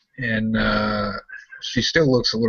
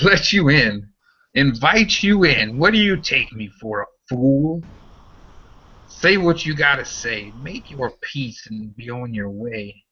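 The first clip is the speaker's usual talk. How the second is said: higher, mocking disbelief; scornful woman; 3 semitones higher than usual. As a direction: scoff at the strangers. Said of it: "she starts laughing".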